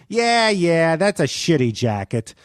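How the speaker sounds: mock dismissive imitation; taunting. Norm brushing off Fred's plea, mildly taunting. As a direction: lightly needle him, dragging the brush-off. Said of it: "he would taunt me".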